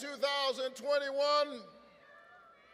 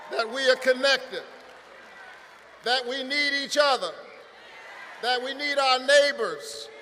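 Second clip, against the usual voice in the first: rising, rhythmic preacher's cadence, building louder; preaching; 3 dB louder than usual. Acted. Pastor preaching the American covenant to the rally, building sermon cadence. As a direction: preach it like a Baptist pastor from the pulpit.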